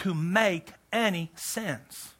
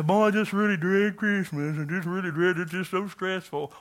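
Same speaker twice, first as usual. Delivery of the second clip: mock dread. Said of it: "when we say".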